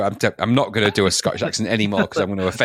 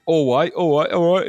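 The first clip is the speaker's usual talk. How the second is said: higher, chirpy catchphrase patter; Michael Barrymore; 5 semitones higher than usual. Retold or imitated. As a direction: rattle off a mock entertainer's greeting. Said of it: "trying to cash on Michael Barrymore's".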